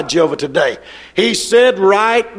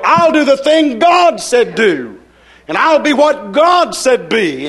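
resolute self-talk. Acted. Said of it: "you shake yourself and you say".

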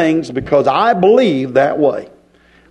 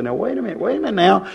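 quiet doubter; 6 dB quieter, faster than usual. Retold or imitated. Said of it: "Somebody said".

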